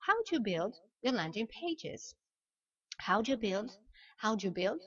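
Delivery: "How do you" run together as how-dju; contracted do you. Shown as a demonstration. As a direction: model "How do you build" with dju and a short i. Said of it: "je reprends la term". (« How do you build » contracté en how-dju)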